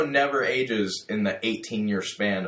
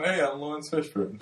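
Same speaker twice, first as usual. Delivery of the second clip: Lawrence Fishburne impression; 4 semitones higher, 3 dB quieter than usual. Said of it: "I do a really killer Lawrence Fishburne impersonation".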